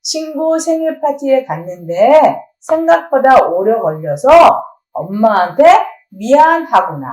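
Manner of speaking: calmly mirror her feelings; empathetic summary. Shown as a demonstration. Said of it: "요약 시작".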